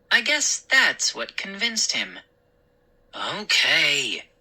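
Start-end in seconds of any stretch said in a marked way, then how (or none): 3.1-4.3 resigned, drawn-out agreement; weary sigh. Acted. Father finally giving in, sighing wearily. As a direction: give in tiredly. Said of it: "he said, sighing wearily".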